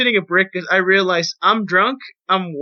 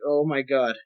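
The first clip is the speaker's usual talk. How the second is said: retold exasperation; 5 semitones lower, 6 dB quieter than usual. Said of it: "And I'm like".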